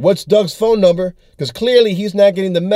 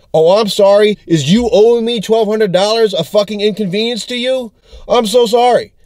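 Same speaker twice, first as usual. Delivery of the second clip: raised, mock-sorry sneer; sarcastic apology; 5 semitones higher than usual. Comic telling off the debtor who hung up, in a sarcastic high mock apology. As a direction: pretend to apologize, dripping sarcasm.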